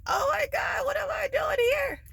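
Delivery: very high-pitched squealed freak-out; inner panic. Retold or imitated. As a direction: squeal it like a silent scream inside. Inner panic while sitting through signing.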